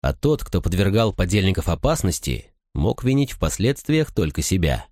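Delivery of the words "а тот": ordinary delivery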